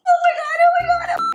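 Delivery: high, loud excited shrieks; shrieking jackpot winner. Real, not acted. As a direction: squeal like you just won big. Excited shrieking about going to Europe.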